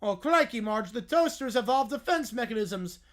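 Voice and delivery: lightly done Australian wildlife narrator; a hint of Australian nature-show host; mild Australian documentary accent. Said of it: "Australian wildlife documentary narrator".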